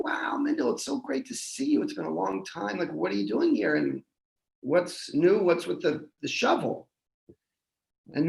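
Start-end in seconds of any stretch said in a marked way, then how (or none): 0.0-6.9 a lightly voiced old friend, pitched higher; a hint of a cheerful friend, higher up; old friend Simcha. The old friend greets Mendel at the river, a lightly voiced cheerful higher greeting.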